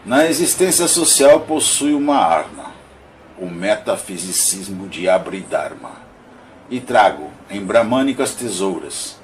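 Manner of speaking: measured, declaimed verse with pauses between lines; poem recitation. Acted. Reading Augusto dos Anjos's monologue of a shadow to listeners, poem recitation. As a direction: recite it line by line, emphatic openings falling away.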